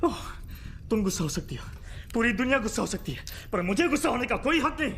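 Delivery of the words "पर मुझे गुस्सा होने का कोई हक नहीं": bitter laugh. Acted.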